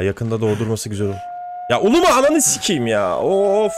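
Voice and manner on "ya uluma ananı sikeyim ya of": louder, higher furious swearing; raging at the game, cursing loud; angry outburst. Real, not acted. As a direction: snap at the howling wolves. Wolves howling at him.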